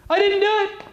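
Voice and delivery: squeaky high and loud denial; chipmunk voice. Shown as a demonstration. Demonstrating a stressed liar's squeaky high denial. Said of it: "They sound like chipmunks".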